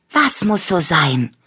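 tiny squeaky character voice; squeaky little voice. A narrator's reading. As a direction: ask in a little piping voice. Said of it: "fragte eine kleine piepsige Stimme".

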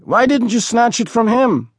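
high, mocking teenage jeer; mocking boy. A narrator's reading. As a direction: needle him like a cocky street kid. Mocking boy challenges Uri.

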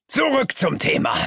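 high, commanding tone; firm boss. A narrator's reading. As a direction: bring the meeting back firmly. Boss calling meeting to order.

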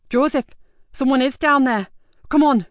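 urgent whispered-over-the-rubble call turned loud. A narrator's reading. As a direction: hurry him on, alarmed. Urgent call on hearing a cry.

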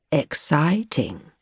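slow, sneering copy of her Yorkshire vowels; posh boy aping her Yorkshire accent; drawn-out mocking Yorkshire "Exciting?"; mock Yorkshire echo. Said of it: "He was imitating her voice now".

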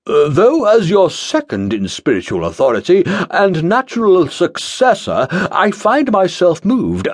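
weasel out with pomp; pompous pastor. Acted. Pastor Collins excusing himself.

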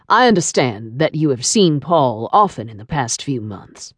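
low, measured male interrogator with a French trace; deep French-accented man. A narrator's reading. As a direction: probe her in a deep, suspicious voice. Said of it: "deep tone of his voice with its seductive trace of a French accent".

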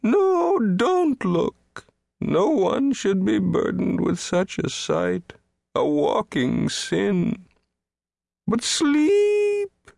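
high, anguished plea ending in a long wail. A narrator's reading. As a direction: plead mournfully, then soar on the last word. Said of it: "he wailed".

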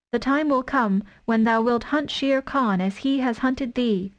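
a mother wolf daring a tiger to come in; fierce she-wolf. Acted. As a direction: stand over your cubs and defy the tiger. Mother Wolf claims the cub.

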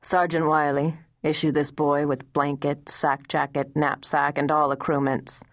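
the general curtly orders the sergeant; mild clipped command; brusque demand. Acted. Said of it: "to demand brusquely".

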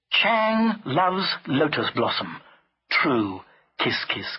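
slow, deliberate narrator's reading; spaced-out, understated reading; slogan read out. A narrator's reading. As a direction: read each word out separately.

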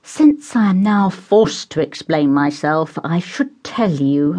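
slow, patient and resigned; slow forbearing explanation. Acted. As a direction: explain yourself with weary patience. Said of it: "with an air of forbearance".

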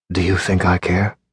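cold menace. A narrator's reading. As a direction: flatten his hope, coldly.

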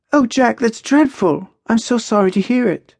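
high-pitched, mildly acted sympathy; sympathetic. Maya consoles Jack over his family, sympathetic. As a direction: offer condolences in Maya's high voice.

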